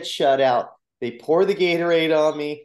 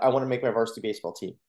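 blurted out; faster than usual. Retold or imitated. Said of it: "I just blurred out".

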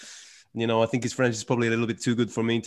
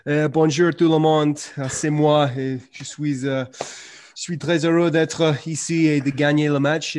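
slightly louder, eager Serbian-tinged French; Djokovic's eager French; 3 semitones higher, 4 dB louder than usual. Retold or imitated. Mimicking Djokovic's eager, polished victory French. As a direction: sound keen to be liked. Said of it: "comes out with pretty good French".

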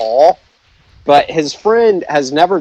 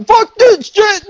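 slow, very high drawn-out yell; hammed-up war cry, stretched out; stunt battle cry; 4 dB louder, slower than usual. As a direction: scream it like launching into a stunt.

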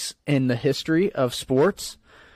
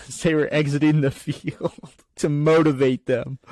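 chuckling through the words; amused laughter; 3 semitones higher than usual. Real, not acted. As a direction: laugh while telling it. Amused at fan beer throwing.

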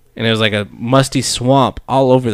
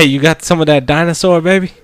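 flirty pickup line; 5 semitones higher, 4 dB louder than usual. Pretend.

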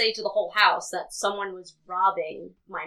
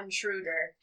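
alarm shout; 4 semitones higher, 4 dB louder than usual. Acted. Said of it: "I scream out".

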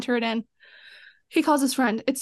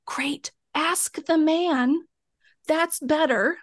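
sarcastic aside; 4 semitones higher, much slower than usual. Retold or imitated. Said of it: "And I'm like".

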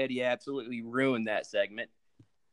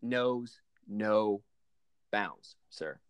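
hammed-up fury; 5 dB louder than usual. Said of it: "contained my rage".

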